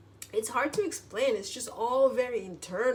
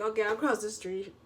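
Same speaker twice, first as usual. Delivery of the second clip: grudging surrender. Retold or imitated. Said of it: "you win".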